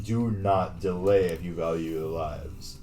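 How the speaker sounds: slow, loud booming dragon voice; giant alien booming voice. Acted. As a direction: boom it out like a huge dragon. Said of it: "a thunderous voice echoes against every wall".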